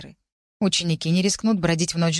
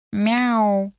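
cat meow; 3 semitones higher, 4 dB louder than usual. A narrator's reading. Cat meows in her head.

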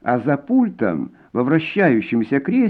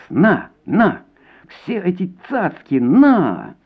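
outburst; 7 semitones higher, slower than usual. A narrator's reading. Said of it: "взорвался женский голос".

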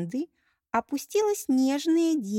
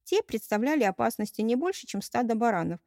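usual speaking voice

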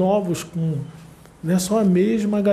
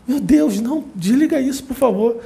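higher, pleading groan of annoyance; mock exasperated plea; 4 semitones higher than usual. Viewer fed up with bad music, mock exasperated plea. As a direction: beg them to switch it off, half joking. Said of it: "você fica assim, ó".

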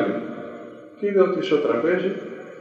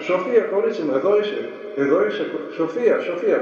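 calling out her name; 4 semitones higher, faster than usual. Retold or imitated. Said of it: "άρχισε να φωνάζει".

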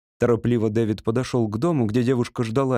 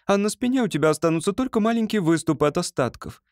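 higher, lightly voiced young woman; Ruth's voice; 6 semitones higher than usual. A narrator's reading. Ruth telling David how he seems to her, higher voice. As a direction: lift the voice for Ruth as she speaks.

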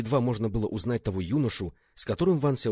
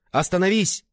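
high, loud cry to halt; desperate shout; 10 semitones higher, 7 dB louder than usual. A narrator's reading. Man watching two friends fight, desperate shout. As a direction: shout to break up a deadly fight. Begs duelling friends to stop.

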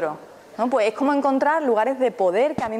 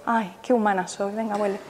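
kind self-talk; 3 dB quieter than usual. Shown as a demonstration. Meditation teacher shows class how to coax the mind back kindly. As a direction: talk your own wandering mind back gently. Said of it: "con cariño y con blandura".

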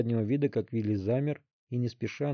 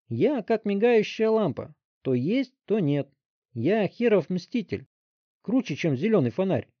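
gloating brag; 8 semitones higher, 3 dB louder than usual. A narrator's reading. Teen showing off his powers, gloating. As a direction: crow about it like a superhero.

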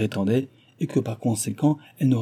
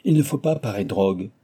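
shouting; 5 semitones higher, 5 dB louder than usual. Acted. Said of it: "ajouta-t-il en criant".

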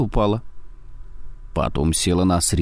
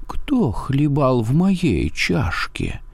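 slow mother bear growl; softer growl; 6 semitones higher, slower than usual. A narrator's reading. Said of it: "зарычала не так громко".

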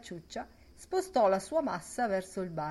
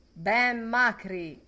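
saluto allungato; 4 semitones higher, 7 dB louder, much slower than usual. A narrator's reading. Dedalus saluta Ben.

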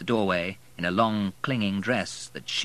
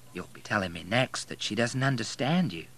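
quietly pleased; 3 semitones higher than usual. Acted. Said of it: "tone of her voice betraying her pleasure".

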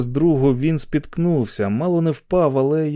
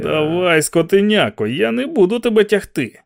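hissed; 6 semitones higher than usual. Acted. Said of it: "просичав Макфріс".

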